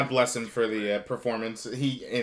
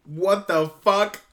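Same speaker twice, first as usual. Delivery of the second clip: incredulous; 7 semitones higher, 5 dB louder, much slower than usual. Real, not acted. Reacting to absurd plot.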